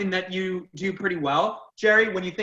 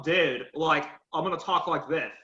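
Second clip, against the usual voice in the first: mock monotone slacker; 5 semitones lower, 4 dB quieter than usual. Shown as a demonstration. Teacher showing students a bad speech, mock bored monotone. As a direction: demo how not to give a speech, bored. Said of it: "That sounds monotone".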